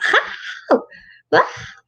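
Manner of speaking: a hint of toddler yelping; short mock toddler outbursts; imitated toddler cry. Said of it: "doing what toddlers do".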